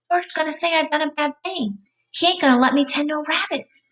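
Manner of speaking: high scared voice; frightened crying. A narrator's reading. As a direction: fret like a frightened child. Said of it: "Lenny began to cry with fright".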